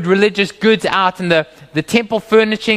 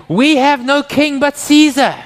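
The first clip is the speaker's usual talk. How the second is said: mock crowd shout; 7 semitones higher, 4 dB louder than usual. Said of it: "they're gonna shout back".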